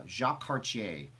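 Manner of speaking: "Cartier" said the French way, ending in -ay; French pronunciation. Shown as a demonstration. Host naming the explorer, French pronunciation. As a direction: say "Cartier" as car-tee-AY. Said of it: "It's called Cartier, not Cartier".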